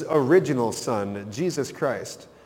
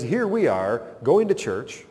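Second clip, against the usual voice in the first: self-righteous complaint; 2 semitones higher than usual. Retold or imitated. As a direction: list your good deeds with rising indignation. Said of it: "this thought process that says".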